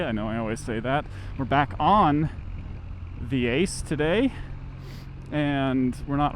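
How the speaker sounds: muffled inside a closed helmet. Real, not acted. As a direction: voice boxed in by the visor. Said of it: "it makes my voice sound less awful".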